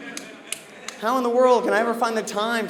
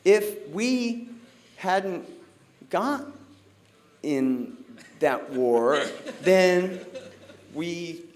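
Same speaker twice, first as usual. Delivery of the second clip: mock Kamala Harris; 3 semitones lower, 3 dB quieter, much slower than usual. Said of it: "Listening to Kamala Harris explain".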